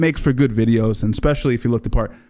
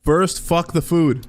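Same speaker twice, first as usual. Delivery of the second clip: higher, slowed mock bellow; imitating Wes; 5 semitones higher, slower than usual. Streamer mimicking Wes's food rant, slow mock bellow. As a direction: ham up his slow rant.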